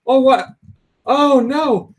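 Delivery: high, loud mock dismay; hammed-up concern; imitated alarmed dad. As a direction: react like a startled dad. Dad's alarmed reaction, retold.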